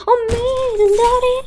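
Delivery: high startled yelp; startled cry. Real, not acted. Gamer spots something in the room and cries out, startled. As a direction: jump at something unexpected.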